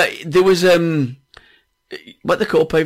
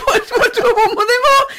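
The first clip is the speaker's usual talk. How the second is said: laughing while quoting; 3 dB louder than usual. Retold or imitated. Retold pub exchange, laughing.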